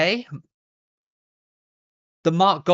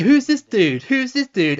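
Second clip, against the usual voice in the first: baffled; 8 semitones higher, 5 dB louder than usual. Retold or imitated. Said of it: "And he's like".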